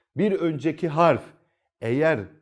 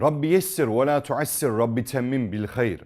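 opening prayer; 3 semitones lower than usual. Real, not acted. Teacher opening the Quran lesson with a calm prayer. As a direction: recite the opening dua calmly.

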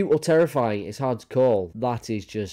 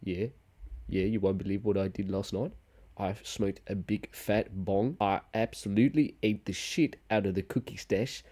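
lazy dog bragging to its pal; a hint of a mellow stoner.

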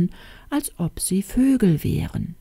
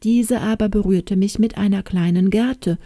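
put-on lightly raised old hen voice, confiding; talking hen narrating; 3 semitones higher than usual. Old hen reveals the girl's royal birth, confiding. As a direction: tell the secret like a chatty old nurse hen.

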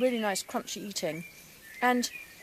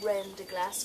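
English speaker's rough French accent; a hint of a French accent, not quite right; bad French accent. Shown as a demonstration. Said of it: "bad French accent".

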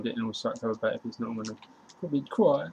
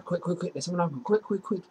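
urgent urging; 5 semitones higher than usual. Real, not acted. Urging fast pass.

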